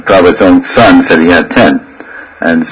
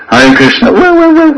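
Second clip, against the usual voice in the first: mock wailing for Krishna, very high; hammed-up fake tears; fake devotional crying. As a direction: wail Hare Krishna in a put-on voice. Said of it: "not genuine crying".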